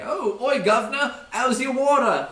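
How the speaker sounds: high, loud mock Cockney surveyor voice; British surveyor. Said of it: "keep impersonating a British surveyor".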